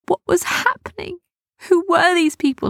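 high-pitched, bewildered alarm; alarmed thought. A narrator's reading. Boy dragged off by dark figures, alarmed.

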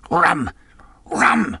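high, climbing cries; desperate demand. A narrator's reading. Captain desperately demanding rum.

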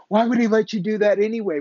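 hammed-up yelling objection; mock scream. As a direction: fire off the challenge like an indignant shout.

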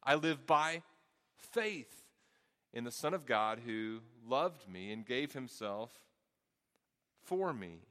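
measured scripture reading; scripture recitation. Acted. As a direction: let each phrase land like a sacred text.

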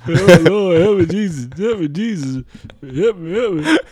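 put-on loud, high wailing old auntie; falling auntie. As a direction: cry out to the Lord while tumbling.

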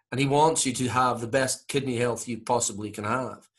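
put-on Scottish-accented health advice; soothing Scottish doctor giving careful instructions; Norman Swan. Comedian as radio doctor advising on hygiene, Scottish accent. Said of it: "you're listening to this going".

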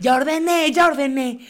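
put-on loud, high bratty whine of a teen; mocking teen protest. Teen girl snapping at her stepmother, loud and high. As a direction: shout it back like an annoyed kid.

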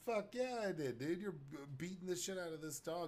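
emphatic retold reply. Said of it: "I was like".

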